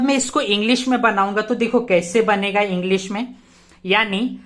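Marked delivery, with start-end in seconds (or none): 3.9-4.4 when, drawn out slowly for the class; teacher dictating "when" very slowly; slow dictation. Shown as a demonstration. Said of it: "सबसे पहले तो मैं क्या लगाऊंगा when".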